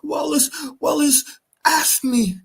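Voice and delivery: high, wailing, near tears; a snivelling weasel crying to his dad; whining son. Retold or imitated. Bruce whining to his father, high and tearful. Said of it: "he's like".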